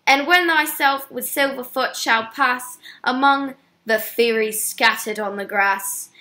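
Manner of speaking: put-on poem read aloud in a vague English accent. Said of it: "an English accent of some sort".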